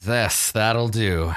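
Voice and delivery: slow, settled acceptance; placated character. Acted. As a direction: agree slowly in a lightly put-on voice. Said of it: "he nods and he says".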